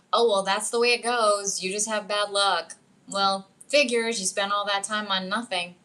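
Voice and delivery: mock dismissive self-talk, pushed a little; nagging inner voice. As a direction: imitate an inner critic writing you off. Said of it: "your systems that are constantly going".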